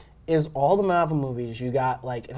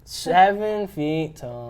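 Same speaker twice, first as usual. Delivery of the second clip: long-drawn, slightly higher awe; amazed; 3 semitones higher, much slower than usual. Real, not acted. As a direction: stretch the words out in amazement. Amazed at the actor's height.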